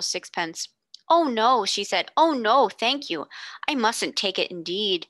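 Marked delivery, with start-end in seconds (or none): 1.1-1.6 put-on higher, louder little girl refusing politely; a well-bred girl, flustered but polite. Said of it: "so unlike an ordinary street child's voice". 2.2-5.1 put-on a well-bred girl, flustered but polite. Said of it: "so unlike an ordinary street child's voice".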